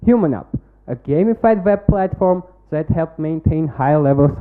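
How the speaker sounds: rehearsed, projected pitch-deck delivery; confident startup pitch read to a jury; pitch presentation. Acted. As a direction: sell the product to the judges like a memorised pitch.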